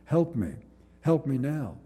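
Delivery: retold desperate plea; crying out for help. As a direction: beg for help from the pit. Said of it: "I cried".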